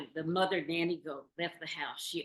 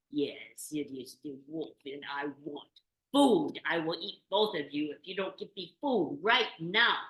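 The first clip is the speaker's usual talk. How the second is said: menacing wolf; 5 dB louder than usual. Acted.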